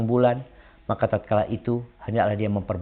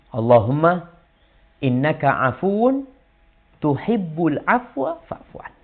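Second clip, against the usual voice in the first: slow, chanted Arabic prayer; prayer recitation; 3 semitones higher, slower than usual. Shown as a demonstration. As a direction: recite the dua slowly, rising. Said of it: "Apa kata Nabi".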